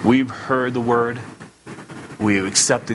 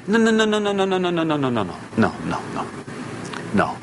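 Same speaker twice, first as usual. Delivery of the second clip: emphatic no fading; 6 semitones higher, faster than usual. Acted.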